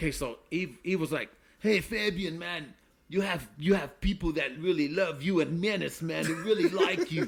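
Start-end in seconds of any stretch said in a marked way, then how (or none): 1.6-7.3 put-on French accent in English. Retelling what Eve said to him: imitating Eve's French accent. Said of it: "That's a pretty good, uh, French accent".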